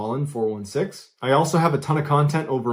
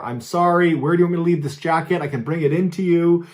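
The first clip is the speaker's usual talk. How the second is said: higher, calling up the stairs; father calling up to the old woman, mildly raised; 5 semitones higher, 3 dB louder than usual. Retold or imitated. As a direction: call out the apology to someone unseen. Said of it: "the father is yelling to her".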